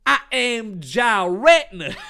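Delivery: loud and high, a different voice for the monster. Acted. Monster telling Dave who it is, loud and high. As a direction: announce yourself like a ghost monster.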